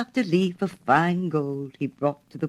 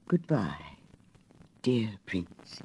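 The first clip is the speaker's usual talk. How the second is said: soft, lower, near-whispered goodbye; murmured; 6 semitones lower, 7 dB quieter, slower than usual. A narrator's reading. Dying swallow bids the prince farewell, faint murmur. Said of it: "he murmured".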